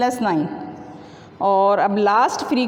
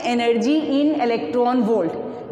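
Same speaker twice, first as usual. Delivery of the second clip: quoting slowly; much slower than usual. Shown as a demonstration. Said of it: "यहाँ क्या कहते हैं".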